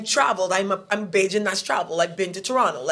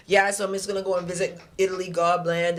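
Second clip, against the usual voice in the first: calm imitation. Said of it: "he'll be like".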